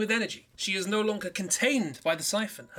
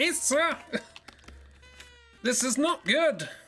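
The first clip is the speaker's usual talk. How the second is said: high, drawn-out, urgent shout, acted out; 6 semitones higher than usual. Retelling how Jack shouted to Issa as Jacob flies at the ship: imitating someone shouting. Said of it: "Jack's just shouting like".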